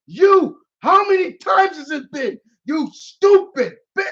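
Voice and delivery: high-pitched mock angry razzing; Mario. Mario berating Peach, high angry rant. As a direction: lay into her in an exaggerated high rant. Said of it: "he just starts razzing on Peach".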